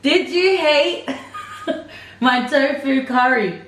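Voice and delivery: giggling through the question; laughing. Real, not acted. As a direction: laugh while asking. Wife asks laughing.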